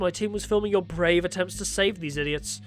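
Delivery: villain voice. Acted.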